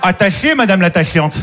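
lisp, s sounds in "attachez" and "l'attachante" said as sh; lisping "madame l'attachante" with a slushy sh. Retold or imitated. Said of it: "On sent bien le cheveu sur la langue".

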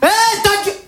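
fake tough guy. A man on the phone to his girlfriend in front of friends, tough then meek. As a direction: start as a hard man then melt. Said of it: "Je vais vous montrer".

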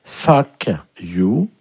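fuck you, each word set apart; dictated English lesson. Shown as a demonstration. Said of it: "la première phrase pour aujourd'hui qu'il va vous falloir apprendre". (dictée d'anglais, mot à mot)

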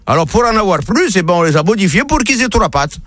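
lightly voiced country farmer. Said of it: "il va voir le fermier".

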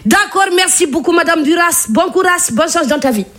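a hint of a cleaning lady on the phone; lightly voiced housekeeper brushing off a caller. Comedian at home fakes being the cleaning lady, lightly voiced. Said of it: "Marie Curie en mode femme de ménage".

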